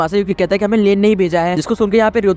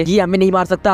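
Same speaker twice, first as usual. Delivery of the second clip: ordinary delivery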